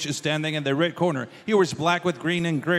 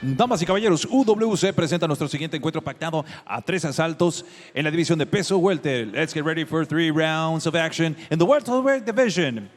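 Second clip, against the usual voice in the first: lucha libre announcer. Real, not acted. Ring announcer opening the bout.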